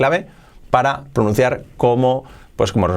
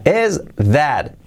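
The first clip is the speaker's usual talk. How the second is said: "Is that a person?" slowly, rising at the end; slow model question; much slower than usual. Shown as a demonstration. Teacher models the question slowly for learners. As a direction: spell the question out slowly with a rise. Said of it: "¿Cómo sería?".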